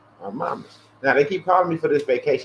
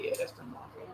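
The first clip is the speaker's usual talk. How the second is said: squeaky mock line; 18 dB quieter, faster than usual. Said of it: "I'm like".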